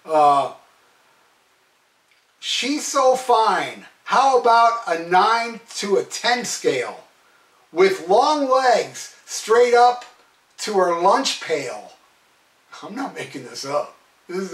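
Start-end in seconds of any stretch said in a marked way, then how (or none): 2.4-11.9 slow, spaced-out reading of lyrics; mock lyric recital. Reviewer quoting lyrics he finds stupid, slow mock recital. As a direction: recite it with mock importance, phrase by phrase. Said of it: "And I quote".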